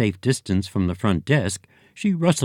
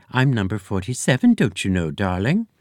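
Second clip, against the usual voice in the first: society lady coo. Acted. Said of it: "fluty society lady's voice".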